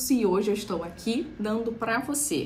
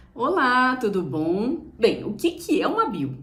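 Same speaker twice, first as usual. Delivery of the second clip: talking to just one person. Shown as a demonstration. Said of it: "Estou falando somente para uma pessoa".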